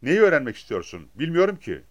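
narrated alarm, lightly acted; panicked. A narrator's reading. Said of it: "Hammer telaşa kapılarak". (telaşla, sesini yükselterek)

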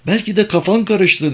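gentle, high-pitched wife's voice; tender. A narrator's reading. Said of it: "dedi şefkatle Kamer". (şefkatli bir eş)

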